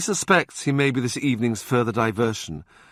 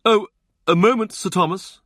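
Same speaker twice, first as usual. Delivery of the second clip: high, louder call across the room; calling back; 10 semitones higher, 5 dB louder than usual. Acted. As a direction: loop the voice out to pull him back. Wolsey calls him back.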